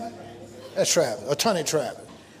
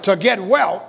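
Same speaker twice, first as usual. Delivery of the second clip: preached call-out; 4 semitones higher, 4 dB louder than usual. Real, not acted. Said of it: "come on, say it".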